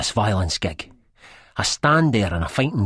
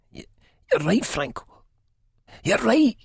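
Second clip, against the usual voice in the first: a groaning, heartfelt admission, rising higher. A narrator's reading. Spud giving in to Franco, groaning from the heart. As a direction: groan it with all your heart. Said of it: "I groan, but with all my heart".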